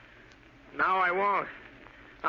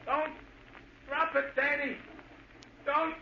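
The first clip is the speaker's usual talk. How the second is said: hypnotised repeating; 12 semitones higher, 3 dB quieter than usual. Acted. Sniper repeats commands, hypnotised.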